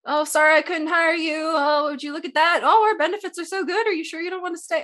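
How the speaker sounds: lightly voiced boss begging them to stay; mock game master voice. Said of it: "he'd wanna say".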